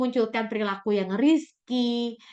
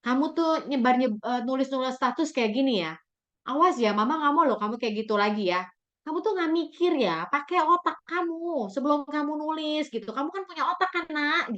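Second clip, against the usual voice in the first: scolding mother; 3 semitones higher than usual. Shown as a demonstration. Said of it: "Jangan bilang".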